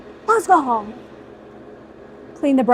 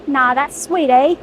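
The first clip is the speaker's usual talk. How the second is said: light attempt at an Australian accent. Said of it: "How's my Australian accent?".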